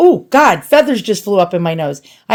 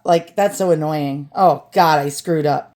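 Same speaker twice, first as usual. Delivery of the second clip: lower, softer deflated sigh; muttered disappointment, much lower; glum and quiet; 6 semitones lower, 4 dB quieter than usual. Real, not acted. Deflated realization after valley voice.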